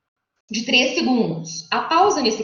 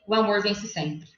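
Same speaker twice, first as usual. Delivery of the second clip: "o amor vence sempre" softer, slower, falling to a close; descending affirmation; 5 dB quieter than usual. Shown as a demonstration. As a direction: state "o amor vence sempre" as a quiet, slow conclusion. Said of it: "essa afirmação". ("o amor vence sempre" em afirmação descendente, baixa e lenta)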